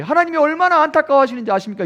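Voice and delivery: high, loud pleading revival-preacher voice; mock emotional revival sermon, rising to a cry; revival preacher's plea. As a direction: imitate a preacher working the crowd to tears. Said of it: "막 이렇게".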